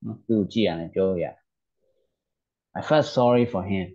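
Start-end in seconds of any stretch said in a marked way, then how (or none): 2.8-3.9 slow, careful reading of the English text for learners; slow read-aloud. Shown as a demonstration. A teacher slowly reading the English story to learners. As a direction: read each word out slowly and clearly.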